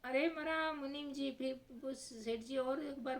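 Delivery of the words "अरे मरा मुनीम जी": a hammed-up wail, higher; mock cry out. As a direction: call out in mock pain. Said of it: "फिर जोर से चिल्लाते". (सेठ जी मुनीम को पुकारते हुए नकली चीख)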